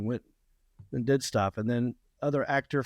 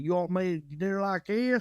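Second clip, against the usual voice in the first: put-on Southern accent; 5 semitones higher than usual. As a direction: lay the Southern accent on thick for an old friend. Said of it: "if I'm putting something on".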